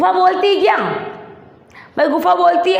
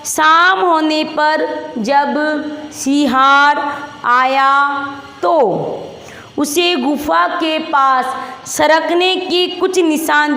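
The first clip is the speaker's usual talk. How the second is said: slow read-aloud; slower than usual. Shown as a demonstration. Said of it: "दोबारा किताब का वाचन करो".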